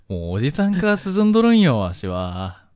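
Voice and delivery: lightly voiced old geezer, high; a hint of a creaky old man. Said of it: "十歳のじじいじゃねえか".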